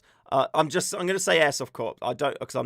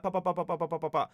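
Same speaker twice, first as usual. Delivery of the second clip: mock gunfire; 3 semitones higher, faster than usual. Shown as a demonstration. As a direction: mouth gun noises, rapid. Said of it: "Probably something like that".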